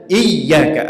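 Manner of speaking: "iyyaka" with a held, doubled y. Shown as a demonstration. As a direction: press on the y in "iyyaka". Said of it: "Ada sabdu huruf ya".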